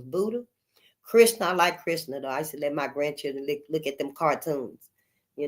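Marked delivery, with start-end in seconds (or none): 0.0-0.4 whispered name. Real, not acted.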